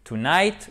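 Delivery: "tonight" said slowly, without its proper English accent; mispronounced tonight. Shown as a demonstration. Teacher showing learners a faulty tonight, mispronounced. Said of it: "Si vous dites".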